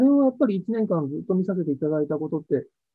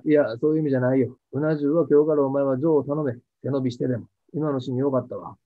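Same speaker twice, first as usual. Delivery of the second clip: lower-pitched, lightly voiced stubborn old craftsman; a hint of the downtown old man, lower; imitating the gruff cameraman; 5 semitones lower than usual. Cameraman explaining the eel-bowl remark to the actor, lower-pitched and lightly voiced. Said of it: "みたいなことを言うんですよ".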